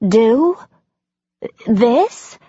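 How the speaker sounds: incredulous, rising mock repetition; husband scoffing at her question; mocking echo. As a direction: throw her word back at her. Husband mocks her word.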